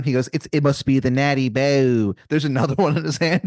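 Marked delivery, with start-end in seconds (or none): 0.3-2.1 lightly hammed Maryland accent; a touch of bad Maryland twang; Wizard of Baltimore, Maryland accent. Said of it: "this man's accent is something".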